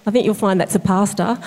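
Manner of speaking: dry, deadpan sarcastic remark. Retold or imitated. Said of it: "he's quite sarcastic".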